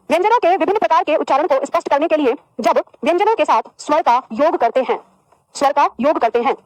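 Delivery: feed the class each phrase to write down; unhurried dictating teacher. Shown as a demonstration. Repeating dictation.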